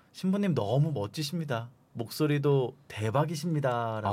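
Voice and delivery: ordinary talk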